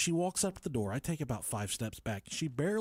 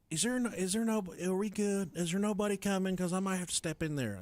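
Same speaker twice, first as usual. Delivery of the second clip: higher, lightly voiced hesitant wife; a hint of anxious stammering; imitated nervous wife; 5 semitones higher than usual. Wife checking nobody is coming, lightly imitated nervous voice.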